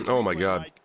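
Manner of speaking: stuffed-up nose from allergies; nasal voice. Real, not acted. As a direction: talk through a blocked nose. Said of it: "Sorry if I sound all nasally".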